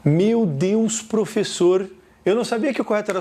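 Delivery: lightly acted pupil's amazement; a touch of mock astonishment; astonished student. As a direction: voice a student taken aback, mildly. Acts a surprised student.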